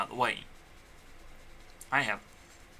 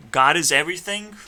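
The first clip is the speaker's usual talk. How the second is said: louder, sure declaration; firm claim; 3 semitones higher, 8 dB louder than usual. Real, not acted. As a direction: state it boldly and firmly.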